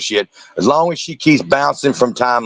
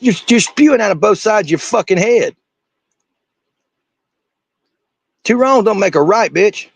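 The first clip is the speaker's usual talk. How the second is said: furious rant; 10 semitones higher than usual. Real, not acted. Shouting back at a YouTuber's video, furious. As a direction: yell it, fed up and furious.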